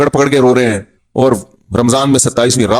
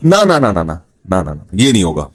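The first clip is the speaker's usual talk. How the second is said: mock sobbing refusal; 9 semitones lower than usual. Preacher mocks a crying man refusing to block, mock whimpering. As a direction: play a man crying like a baby to keep his number. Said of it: "तो रो क्यों रहा है?".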